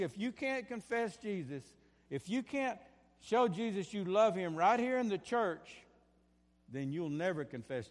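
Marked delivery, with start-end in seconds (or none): 0.0-5.8 higher, louder and slower, driving it home; rising preacher's cry. Real, not acted. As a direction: build to a fervent pulpit call.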